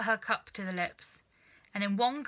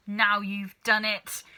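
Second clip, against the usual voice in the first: crying out; 6 dB louder, slower than usual. Acted. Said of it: "cried Missus Cranky".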